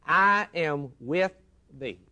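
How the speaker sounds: voicing God's promise. Preacher voicing God to the congregation, proclaiming. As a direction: proclaim the promise with full force. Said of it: "He says".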